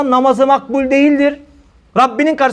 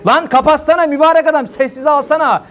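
higher, mock-exasperated telling off; exasperated scolding; 5 semitones higher than usual. Preacher voicing a worshipper annoyed at the ringing phone, scolding. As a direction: snap at him to silence it.

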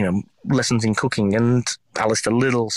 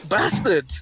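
high, slow curse through laughter; playful cursing, helpless with laughter; laughing mock outrage; much slower than usual. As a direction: stretch the insult out, cracking up. Laughing retort in retold scene.

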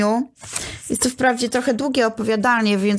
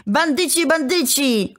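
Bandyci repeated higher, rising into a mild cry; rising outburst; 4 semitones higher, slower than usual. A narrator's reading. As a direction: let Bandyci break out higher each time. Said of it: "wykrztusił wreszcie". (wyższy, narastający okrzyk)

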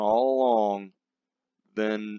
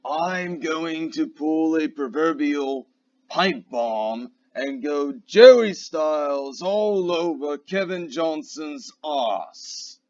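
show announcer; 2 semitones higher than usual. Acted. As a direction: introduce the rant like a live event host. Announces a live pipe bomb.

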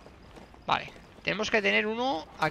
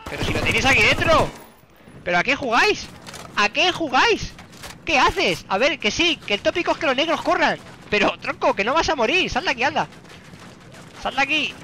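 exasperated yelling; 7 semitones higher, 6 dB louder than usual. Real, not acted. Regaña a su personaje que huye.

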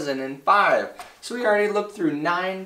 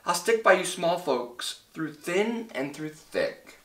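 higher, reassuring storybook voice; Horton answering; 6 semitones higher than usual. A narrator's reading. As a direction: read it as a loyal character's promise. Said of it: "Horton answered".

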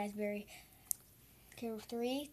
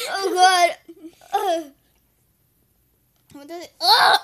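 eating sour candy; 5 semitones higher, 13 dB louder than usual. Real, not acted. Sour candy hits hard.

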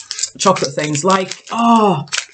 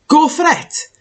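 cheer; 9 semitones higher than usual. Real, not acted. Urging herself to try it.

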